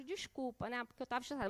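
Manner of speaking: soft, sheepish son apologising; a hint of a contrite teenager, voice dropped; low-toned apology. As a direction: say sorry quietly, head down. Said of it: "as duas primeiras palavras foi no tom baixo".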